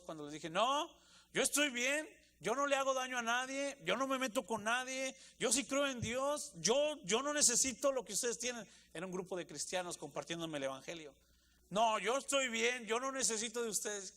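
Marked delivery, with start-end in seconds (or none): 0.5-8.7 high, loud, defensive protest; raised voice. Retold or imitated. Preacher replaying rejecting the gospel group, loud and defensive. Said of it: "bien me recuerdo el tono y el volumen de mi voz". 11.7-14.1 high, loud, defensive protest; raised voice. Retold or imitated. Preacher replaying rejecting the gospel group, loud and defensive. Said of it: "no sé por qué levanté la voz".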